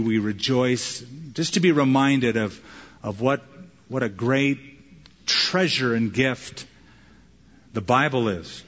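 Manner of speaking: measured, earnest closing prayer. Real, not acted. Preacher thanking God for the Bible, prayerful. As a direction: lead the room in thankful prayer.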